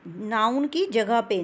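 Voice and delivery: की जगह पे stressed, said slowly. Shown as a demonstration. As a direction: lean on की, not के साथ. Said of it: "नाउन के साथ नहीं".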